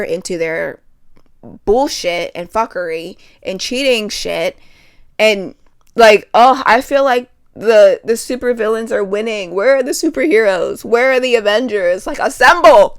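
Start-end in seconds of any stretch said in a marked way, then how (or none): 5.2-13.0 loud, exasperated outcry; exasperated shouting. Real, not acted. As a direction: yell it out in frustration. Angry rant calling for heroes.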